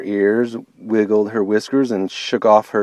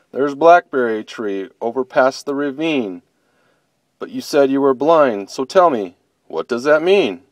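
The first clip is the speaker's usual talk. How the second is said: curious bear; 3 semitones higher than usual. Acted. Bear asking bunny what blind means, puzzled.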